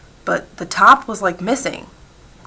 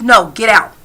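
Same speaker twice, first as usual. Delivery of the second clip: louder, mildly imitated order; retold brush-off with raised volume; curt dismissal; 3 semitones higher, 7 dB louder than usual. Handyman shooing away the people watching him, curt dismissal.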